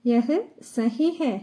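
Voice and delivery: slow, deliberate syllable by syllable; slow model phrase. Shown as a demonstration. Teacher modelling Hindi for Malayalam learners, slow and careful. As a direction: spell it out slowly for learners. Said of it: "teacher repeats Hindi phrase".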